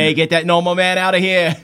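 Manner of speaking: dim country heckler; Southern idiot. Pretend. Country idiot chasing off the normal man, dopey Southern voice. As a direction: put on a dopey Southern accent. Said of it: "And Southern idiot".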